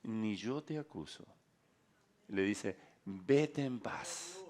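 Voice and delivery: soft and very slow, tender words of release; gentle Jesus. Retold or imitated. Jesus forgiving the woman, soft slow smiling voice. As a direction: speak forgiveness slowly and softly, with a smile. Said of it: "Jesús le sonríe y le dice".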